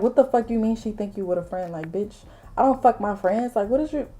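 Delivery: retelling a pissed-off challenge; retold annoyance. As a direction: replay your exasperated comeback. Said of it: "that shit, like, really pissed me off".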